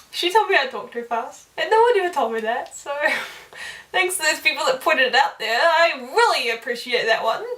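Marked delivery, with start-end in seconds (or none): 3.9-7.4 mock-grateful, leaning on "really"; joking thanks. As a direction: thank them with playful sarcasm. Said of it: "I'm just kidding".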